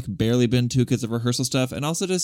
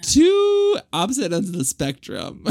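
pitched way up, playful; high squeaky voice; 8 semitones higher, 3 dB louder than usual. Real, not acted. Punchline after hike story.

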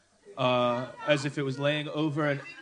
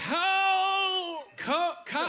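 high, stretched-out Australian words; mock Australian accent; much slower than usual. Shown as a demonstration. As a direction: labour over each word in Australian. Repeats the prompt in Australian accent.

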